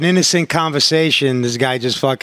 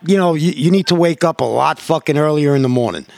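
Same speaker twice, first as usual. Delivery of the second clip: a hint of a stern dad, pitch lifting; lightly acted scolding; 4 semitones higher than usual. Dad retelling his talk to his kids, mildly scolding. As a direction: replay setting the kids straight.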